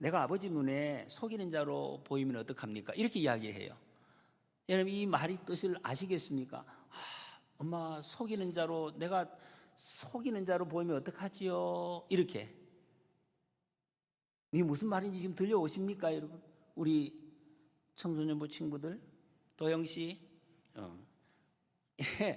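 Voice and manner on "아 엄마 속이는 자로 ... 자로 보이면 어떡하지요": higher, slow anxious whining. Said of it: "걱정하는 요 말투를 한번 보세요".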